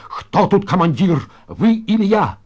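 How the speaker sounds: high, indignant challenge; near shout. Acted. Староста challenges Залетаев over who commands, nearly shouting. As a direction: pitch it up and demand an answer. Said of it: "чуть ли не закричал вдруг Пиня".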